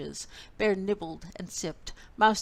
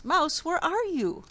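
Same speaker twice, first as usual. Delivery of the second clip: higher and louder call; 9 semitones higher, 4 dB louder than usual. A narrator's reading. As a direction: call through the house. Bear calling out.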